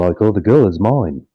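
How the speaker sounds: a light take on a singer singing; an impression of a singer. Riffing on a band's songs, lightly imitating a singer. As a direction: croon it like the singer. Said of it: "That's not a bad" impression of the singer.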